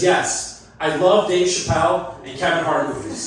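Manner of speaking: mock Russian accent, lightly done; hint of a bad Russian accent. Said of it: "in the worst Russian accent you've ever heard".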